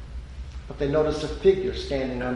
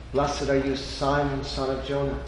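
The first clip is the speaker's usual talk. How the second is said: gentle blessing. Acted. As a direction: bring it down and speak it tenderly. Repeat of Jesus' blessing.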